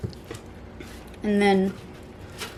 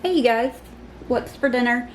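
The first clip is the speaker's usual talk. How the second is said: numb from the dentist. Real, not acted. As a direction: mouth numb from surgery. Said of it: "my mouth is still numb from".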